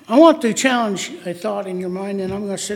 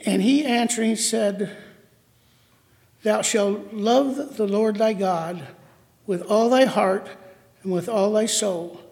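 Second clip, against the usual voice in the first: solemn scripture reading. Acted. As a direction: lay out each phrase of scripture deliberately. Reads scripture verse aloud.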